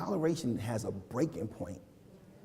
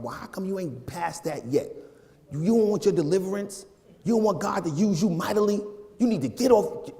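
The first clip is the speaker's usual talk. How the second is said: impatient scolding; 4 semitones higher than usual. Retold or imitated. Older saint scolding a struggling young believer, impatient. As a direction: scold them like a disappointed elder.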